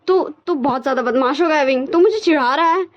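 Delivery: mock angry. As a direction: act out a sulky angry friend. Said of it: "निशन को गुस्सा आ गया". (नकली गुस्से में ऊँची आवाज़ में)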